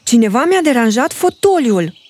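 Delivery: a touch of indignation; mother bear complains about her armchair; upset. Acted. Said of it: "spuse supărată mama urs".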